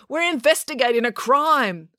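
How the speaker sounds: high-pitched insistence; protesting. A narrator's reading. April argues with Dad about leaving, protesting. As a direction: object as if it's obvious. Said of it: "protested April".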